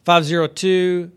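slow, spelled-out digits; slow dictation. Real, not acted. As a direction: read each number out slowly for listeners. Dictating the phone number slowly.

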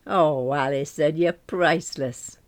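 slow, delighted teasing; slow exclamation of amusement; helplessly amused. Acted. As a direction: draw it out, tickled by a friend. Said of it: "Tears were rolling down her face".

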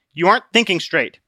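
a hint of a pushy friend; Obstinate, coaxing. Obstinate pressing Christian to return. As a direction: urge him home.

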